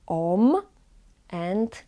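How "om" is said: "om" with O closed by a held m; om sound. Shown as a demonstration. Teacher recaps ways to say the letter, om sound. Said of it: "three ways to".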